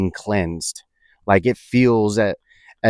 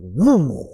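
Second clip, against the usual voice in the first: imitated whoosh; 4 semitones higher than usual. Imitates the rush at the peak.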